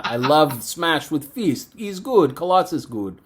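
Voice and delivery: lightly voiced broken English; mock simple-speaking hero; Colossus. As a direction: imitate a halting foreign strongman. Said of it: "somebody speaking broken English".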